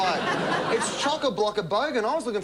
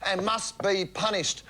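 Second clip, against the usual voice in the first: news segment read. Acted. Reads a news-style comedy segment.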